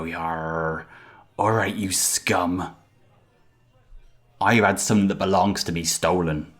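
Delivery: put-on a loosely held pirate accent; wobbly pirate accent. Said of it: "I don't know what's happening in my accent either".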